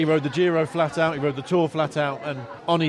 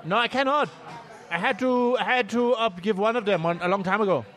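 put-on guest voice; 4 semitones higher than usual. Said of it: "It's Chris".

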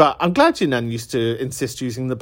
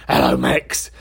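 nan calling her dog. Retold or imitated. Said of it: "She was very much like that".

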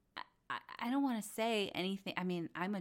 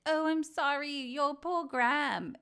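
mock sympathy; 6 semitones higher, 4 dB louder than usual. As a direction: gush over the poor dog. The speaker gushing sympathy to James.

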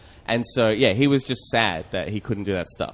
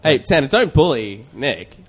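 mock scolding; 5 semitones higher, 7 dB louder, slower than usual. Host scolding Santa in bit.

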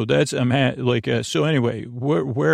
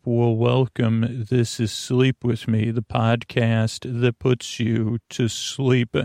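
calm welcome; slower than usual. Acted. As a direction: ease them into bed.

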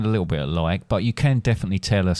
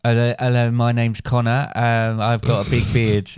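impression of son. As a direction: do a teasing take on your son. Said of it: "you do my voice".

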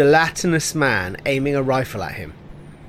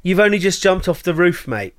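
put-on British accent; 3 semitones higher than usual. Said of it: "definitely British".

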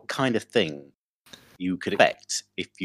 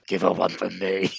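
put-on frail old voice; 3 semitones lower than usual. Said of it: "in a frail old, old voice".

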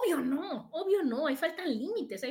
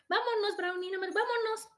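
gentle dog command; 8 semitones higher than usual. Retold or imitated. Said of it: "en un tono mucho más bajito".

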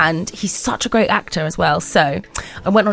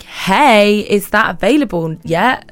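curt email voice reading as snippy; plain; passive aggressive; 2 semitones higher, 5 dB louder, slower than usual. Shown as a demonstration. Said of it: "I always sound really passive aggressive".

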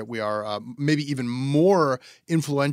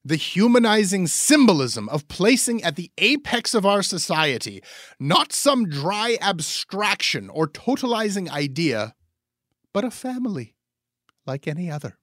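grandly romantic reading; 6 semitones higher than usual. Pretend. Reading Coyne's monarchy column aloud to cohost, grandly romantic. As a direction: read it like a lovesick royalist orator, pitched way up. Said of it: "I don't know why I'm doing this voice recording".

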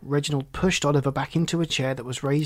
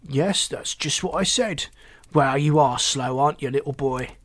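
sneering; 4 dB louder than usual. Acted. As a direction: talk down to him, stretching the words. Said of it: "Reginald sneered down".

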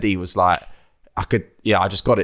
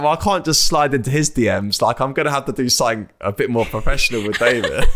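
laughing retold thought; 2 semitones higher than usual. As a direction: joke at his own expense while chuckling. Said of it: "I was like".

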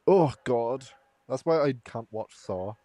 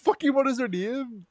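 robotic voice; 9 semitones higher than usual. Pretend. Friend acts out a creepy chain post, lightly robotic voice. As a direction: speak like a stiff robot reading a script. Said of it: "the robotic voice".

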